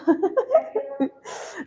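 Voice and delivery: soft, high giggle through tears; teary giggle. Real, not acted. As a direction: giggle at your smudged makeup. Worried about her eyelashes.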